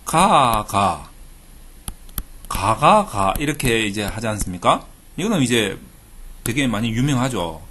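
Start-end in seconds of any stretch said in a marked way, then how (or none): 0.0-3.1 Gyeongsang 가 with each syllable clipped short, the tone jumping up and down; 경상도 사투리 억양으로 가, 가, 가; Gyeongsang dialect 가. Shown as a demonstration. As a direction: say 가 over and over like a Busan native. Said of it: "요거를 경상도 사투리로".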